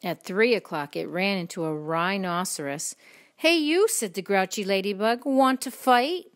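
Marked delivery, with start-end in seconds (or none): 3.4-3.9 high, loud storybook call-out; grouchy challenge. A narrator's reading. Grouchy ladybug accosting a stranger, high loud challenge. 5.2-6.3 loud, slow, rising challenge; grouchy challenge. A narrator's reading. Grouchy ladybug picking a fight, loud rising challenge.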